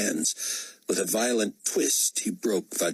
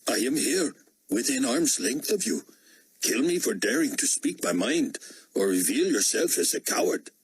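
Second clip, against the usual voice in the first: put-on higher-pitched, Indian-accented challenge; defiant Indian dissident; 6 semitones higher than usual. Dissident daring the potentate within arm's length, defiant. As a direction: dare the ruler to act.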